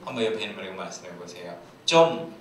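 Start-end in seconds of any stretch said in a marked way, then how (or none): 1.8-2.3 short raised exclamation; okrzyk. Shown as a demonstration. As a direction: call it out for the crowd to copy. Leads congregation in shouted phrase.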